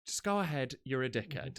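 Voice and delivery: understated dismissal, voice settling down; keeping it cool. Retold or imitated. Driver de-escalates with queue-jumper, coolly dismissive. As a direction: wave him off without heat. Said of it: "I kept it cool though".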